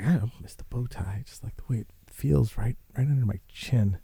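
half-hearted take on a TV host savoring a bow tie; Tucker Carlson impression. Vlogger mocks Tucker Carlson missing his bow tie, faint impression. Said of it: "I can't do a Tucker Carlson impersonation".

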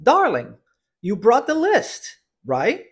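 slow, clearly modelled phrase for repeating; teacher's careful repeat-after-me delivery; pronunciation drill model. Shown as a demonstration. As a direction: stretch "you brought the list", then a short rising "right?". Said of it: "Vamos à pronúncia da frase".

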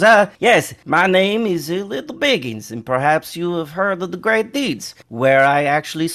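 lightly voiced little halfling introducing himself; halfling adventurer. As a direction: play a halfling telling of his deeds, with hesitations. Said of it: "He goes".

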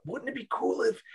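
put-on high-pitched eager kid; excited kid voice. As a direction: gush it like a twelve-year-old. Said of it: "Of the".

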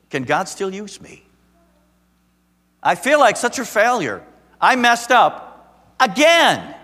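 believer's loud lament; anguished outcry. Retold or imitated. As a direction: cry out in despair. Voicing a despairing believer.

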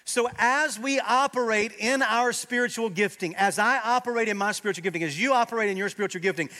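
loud, high sermon climax; rising pulpit fervor; fervent preaching. Acted. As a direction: preach it with full force. Preaching at full force.

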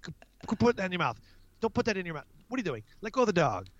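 acted-out exasperated parental nagging; mock yelling parent. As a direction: rattle off orders to a child, half-yelling. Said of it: "then go yell at the kid".

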